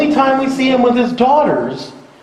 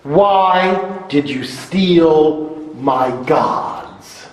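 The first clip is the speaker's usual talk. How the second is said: angry Laban; 4 semitones lower, much slower than usual. Acted. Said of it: "now he's angry".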